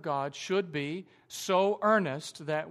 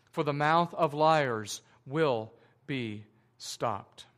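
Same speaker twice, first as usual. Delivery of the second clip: scripture reading. Acted. Pastor reads psalm aloud.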